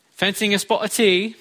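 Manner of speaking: a quick, half-hearted imitation of the Queen's English accent; a light mock-royal English accent; mock posh English accent. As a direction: put on a plummy English accent for a line. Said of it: "I don't know what that accent was".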